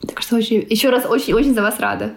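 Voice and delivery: normal talking voice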